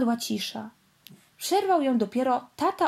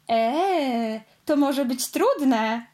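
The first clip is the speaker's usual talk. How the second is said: snorting laugh; much slower than usual. Acted. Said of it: "parsknął śmiechem Piorun".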